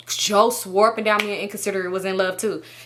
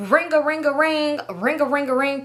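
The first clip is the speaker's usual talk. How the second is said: raised singsong imitation of a ringing phone; 6 semitones higher than usual. Telling how the phone kept going off, imitated ringing. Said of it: "my phone is bl-, getting".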